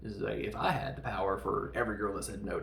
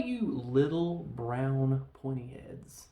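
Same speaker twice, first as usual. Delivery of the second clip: slow, drawn-out redneck insult; mock redneck drawl, trailing down from a yell; 2 semitones higher, 4 dB louder, much slower than usual. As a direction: drag the words out like a hollering redneck. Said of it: "and the redneck".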